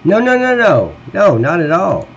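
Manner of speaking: loud, high-pitched run of no's; emphatic denial. Real, not acted. To chat asking if he's mad, loud high denial. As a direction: shut the idea down fast and loud.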